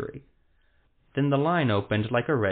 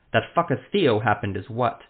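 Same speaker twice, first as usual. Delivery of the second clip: snarl; 4 dB louder than usual. Acted. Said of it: "Ethremel snarled".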